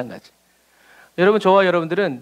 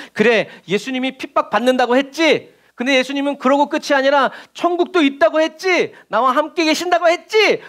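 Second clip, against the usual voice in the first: rising encouraged self-talk; 5 semitones higher than usual. Retold or imitated.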